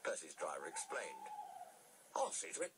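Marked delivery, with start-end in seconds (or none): 2.1-2.7 high-pitched signalman voice; high, obliging railway worker. A narrator's reading. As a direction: play a helpful signalman, pitched well up.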